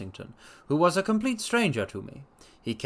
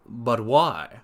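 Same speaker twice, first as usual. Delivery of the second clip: gasped; 3 semitones lower than usual. A narrator's reading. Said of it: "I gasped".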